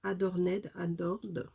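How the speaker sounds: English words in a French accent; French speaker attempting English pronunciation; self-mocked English accent. Real, not acted. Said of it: "avec mon super accent".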